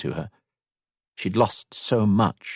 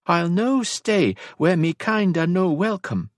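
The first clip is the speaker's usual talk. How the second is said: high, slow mock-Scottish accent; bad Scottish accent; 11 semitones higher than usual. A narrator's reading. Elisand refuses to leave Rory, bad Scottish accent. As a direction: lay on a badly imitated Scottish accent. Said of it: "very bad attempt to mimic his accent".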